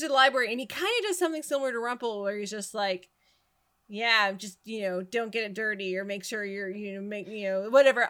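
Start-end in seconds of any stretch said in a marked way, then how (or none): 3.9-8.1 low, offhand, couldn't-care-less delivery; mildly dismissive. Retold or imitated. Rumple handing her the library, low dismissive shrug. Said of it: "he kinda negs her a bit".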